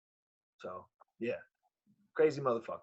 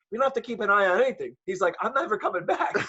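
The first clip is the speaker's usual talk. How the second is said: mildly indignant, higher-pitched retelling; retold indignant refusal; 5 semitones higher than usual. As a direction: imitate a stubborn father refusing, amused. Retells father refusing doctors' follow-up.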